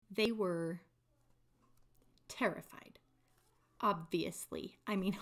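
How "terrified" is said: whispered terrified. Acted. Dramatic scripture reading, fearful word.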